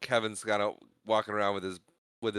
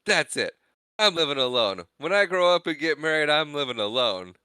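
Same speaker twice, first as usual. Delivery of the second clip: raised-pitch kid's outburst, mildly hammed-up; mock losing it; 5 semitones higher, 4 dB louder than usual. Kevin finally losing it at his family, mock outburst. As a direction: imitate a fed-up kid's tantrum declaration. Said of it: "he finally just loses it".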